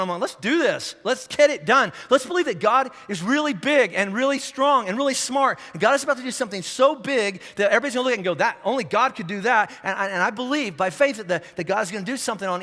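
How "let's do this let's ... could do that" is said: a touch louder and higher, rallying; fired up. Retold or imitated. Pastor in his truck rallying himself, excited. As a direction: pump yourself up. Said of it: "It's like a light came on".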